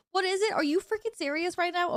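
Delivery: high, exasperated disbelief; mock outrage. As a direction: play it up as appalled. Outraged at chat's answer.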